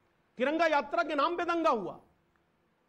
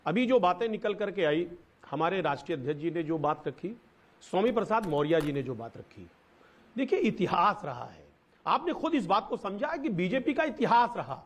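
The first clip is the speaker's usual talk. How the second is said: echo; 5 semitones lower than usual. Real, not acted. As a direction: voice echoing on the line. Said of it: "भाई थोड़ा इको आ रहा है".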